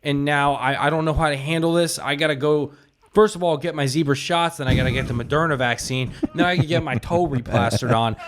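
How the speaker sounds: prank caller voice. Pretend. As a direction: fake earnest caller. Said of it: "We've been doing prank calls".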